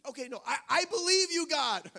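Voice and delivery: desperate high assurance; eager pleading. Retold or imitated.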